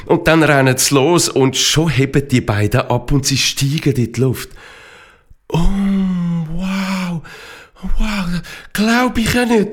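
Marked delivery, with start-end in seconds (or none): 5.5-9.7 high, drawn-out wonder; overwhelmed awe. A narrator's reading. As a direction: marvel in disbelief, pitch raised. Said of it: "überwältigend".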